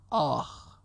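dad's mock groan; pained groan. A narrator's reading. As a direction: moan a storyteller's "ow". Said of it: "بابا نالید".

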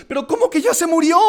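high, loud upset disbelief; consternated. Retold or imitated. Mentor learning the father is dead, worried disbelief. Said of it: "Estaba consternado, estaba preocupado".

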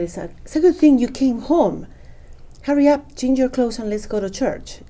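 mom hurrying her along, high and bright; urgent hurry. Retold or imitated. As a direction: rush her out the door like an eager mom.

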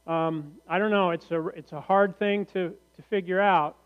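feigning uncertainty with light sarcasm; mock puzzlement. Preacher sharing an obvious discovery with the congregation, lightly sarcastic. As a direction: hesitate as if it were truly baffling. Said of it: "I'm being sarcastic".

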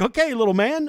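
hammed-up wrestler voice; big wrestler. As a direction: puff up like a giant talking down to a kid. Big wrestler to tiny kid.

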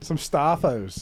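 slow Australian echo; Australian imitation. Shown as a demonstration. Echoing Australian slang for staff discount, imitated accent. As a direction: draw it out in Australian style. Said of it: "they're like".

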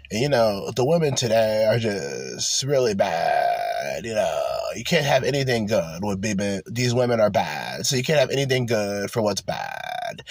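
a hint of a sulking incel; lightly mimicking a gloomy guy. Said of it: "that's how he talked".

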